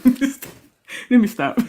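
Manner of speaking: drawn out through a giggle; slowly catching breath from laughing. Real, not acted. Cohost recovering from laughter, slow giggle.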